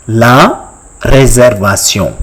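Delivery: "La réservation" as la ray-zair-va-syon; French pronunciation. Shown as a demonstration. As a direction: model "La réservation" with a nasal French ending. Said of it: "in French".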